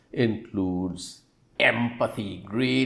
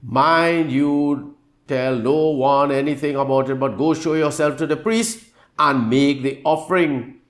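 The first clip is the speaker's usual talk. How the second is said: louder, higher stern command; 4 semitones higher, 4 dB louder than usual. Acted. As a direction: give firm orders with a raised voice. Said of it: "Jesus sternly said to him".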